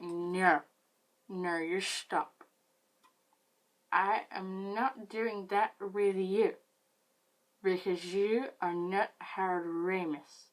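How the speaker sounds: put-on slow, loud drunk scolding. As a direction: shoo him off like a drunk. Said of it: "very accurate reenactment".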